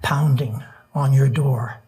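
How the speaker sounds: earnest rhythmic poem recital; nervous open mic poet. Acted. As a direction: build the refrain with urgency. Reads protest poem aloud.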